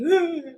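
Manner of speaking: high, loud wordless moan; imitated speechless moan. Speechless patient answering paramedics, imitated high moan. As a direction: moan as if words won't form. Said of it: "I couldn't say anything".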